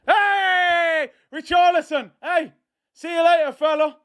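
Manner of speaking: high, jeering send-off shouts; mocking farewell. Real, not acted. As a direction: wave the rival off with glee. Taunting substituted rival players.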